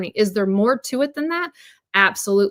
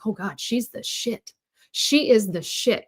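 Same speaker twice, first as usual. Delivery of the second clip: awestruck; slower than usual. Retold or imitated. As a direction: breathe it out in awe, slowly. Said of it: "And I was like".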